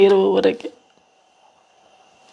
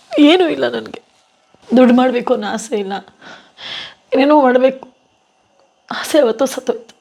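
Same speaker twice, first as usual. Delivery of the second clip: crying. Real, not acted. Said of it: "ಅಳ್ಬಾರ್ದು ನೀವು ಯಾವಾಗ್ಲೂ".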